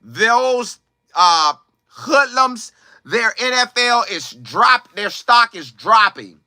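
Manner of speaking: imitating shocked critics, slow and drawn out; mock outrage, each phrase dragged out slowly; scandalized critics. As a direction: play an appalled onlooker passing judgment. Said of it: "people would have been saying".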